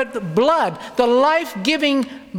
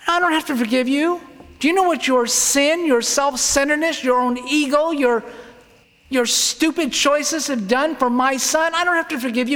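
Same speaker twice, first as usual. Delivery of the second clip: voicing God; 6 semitones higher than usual. Preacher voicing God's rebuke to sinners, raised and stern. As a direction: thunder it down as an offended God. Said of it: "the God of the universe that says".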